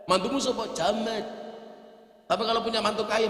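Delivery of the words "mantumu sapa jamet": higher-pitched imitation of a boastful in-law; put-on, raised-pitch swagger; mock showing off. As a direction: play the proud parent-in-law. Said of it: "gayanya minta ampun".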